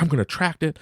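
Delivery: high, determined kid imitation; eager child. Son keeps looking for change, high eager imitation.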